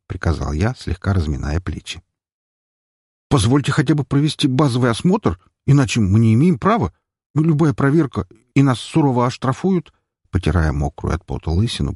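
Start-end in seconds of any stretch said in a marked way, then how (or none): 3.3-9.9 higher pleading doctor; nervous doctor. Acted. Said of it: "пробормотал доктор". (врач нервно упрашивает)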